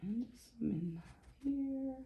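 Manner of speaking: soft unvoiced whisper. Real, not acted. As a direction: whisper it while concentrating. Adding red carefully.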